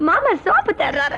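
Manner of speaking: laughing through the words; can't stop giggling while telling it; chuckling report. Acted.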